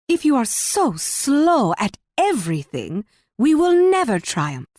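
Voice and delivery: exasperation climbing in pitch; exasperated. Acted. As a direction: scold them, rising high on the final clause. Queen exasperated with slow ally.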